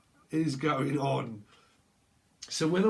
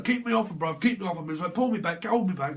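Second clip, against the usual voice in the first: mock hold me back; 4 semitones higher, 4 dB louder, faster than usual. Voicing a brawler held back.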